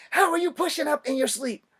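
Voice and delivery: high, loud disbelieving voice; mock incredulous sergeant. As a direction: play the stunned drill sergeant.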